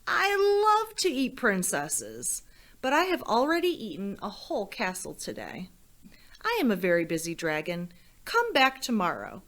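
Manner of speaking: grand storybook dragon brushing her off; boastful dragon. Acted. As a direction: puff yourself up like a full, proud dragon. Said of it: "And the dragon said".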